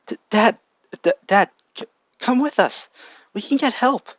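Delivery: high, loud sobbing plea; crying plea. A narrator's reading. Child begging his dying dad to come along, crying. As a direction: beg him through tears. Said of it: "crying over their dad".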